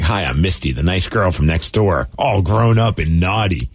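low, slow seductive read; sultry ad voice. Retold or imitated. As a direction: purr it like a racy personal ad. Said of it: "I'm like".

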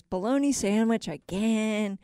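slow, lightly voiced disgruntled worker; joke character. Construction worker finding the same lunch, slow mock dismay. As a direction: draw it out in mild dismay.

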